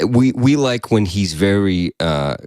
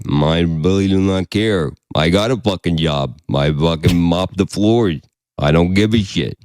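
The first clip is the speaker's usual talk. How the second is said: apathetic Bigfoot voice; 3 semitones lower, slower than usual. Retold or imitated. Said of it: "Bigfoot impression".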